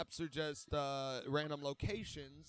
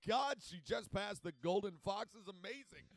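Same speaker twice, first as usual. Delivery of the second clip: mock sports commentator; 3 semitones higher than usual. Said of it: "we're gonna be commentating on, like".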